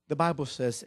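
normal talking voice

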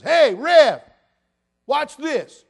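loud, high boastful inmate voice; proud inmate. Retold or imitated. Pastor imitating a boastful inmate, loud and high. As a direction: crow like a proud old convict. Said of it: "He goes".

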